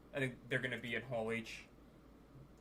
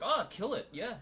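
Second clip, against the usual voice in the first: mock eager shout; 8 semitones higher, 6 dB louder than usual. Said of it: "You're like".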